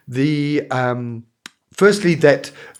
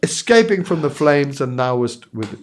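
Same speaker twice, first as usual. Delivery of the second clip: pitying high voice; 6 semitones higher than usual. Retold or imitated. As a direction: coo over it like a helpless baby animal. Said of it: "everyone was thinking".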